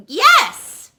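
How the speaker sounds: loud, high proud yes; proud boast. Acted. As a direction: puff up with pride.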